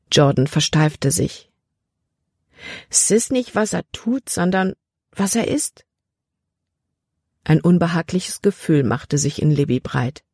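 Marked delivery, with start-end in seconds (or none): 2.9-5.9 ernste Warnung. Acted. Jordan warnt ernst vor dem Arzt.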